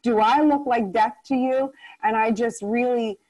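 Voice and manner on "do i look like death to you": offended. Retold or imitated. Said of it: "so I was very offended by this".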